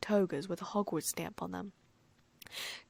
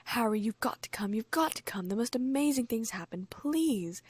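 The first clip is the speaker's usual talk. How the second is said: excited; 4 semitones higher than usual. Acted. Hermione eager, urging Harry.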